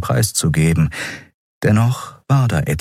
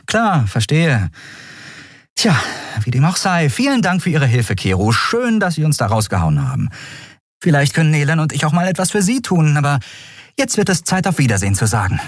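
higher, brisk, ironic farewell; sarcastic young heroine; 8 semitones higher than usual. Acted. Endriel thanks Keru and wants to leave, sarcastic. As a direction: get rid of him politely but fast.

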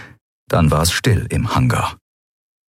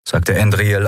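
ordinary delivery, nothing marked

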